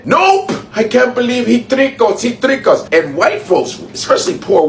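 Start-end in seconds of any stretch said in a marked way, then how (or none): 0.0-0.5 a sharp, much higher sing-song "Nope!"; mocking nope. Taunting voters who thought they were safe, in a high sing-song. 0.7-2.9 a lightly higher, whiny disbelieving voice; mock betrayed voter. Mocking a duped voter who can't believe he was tricked, whiny.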